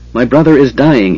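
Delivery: shouting. Acted. Caramon shouting at the dragon about his dying brother. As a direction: call it out to the dragon. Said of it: "he shouted".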